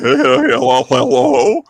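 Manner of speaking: mock high-pitched hello, rising; playful falsetto greeting, laughing; squeaky high hello. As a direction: pitch way up like a young girl answering. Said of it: "We were always like".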